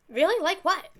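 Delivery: high, loud, eager voice; eager questioning. Acted. Character eagerly asks about bad things.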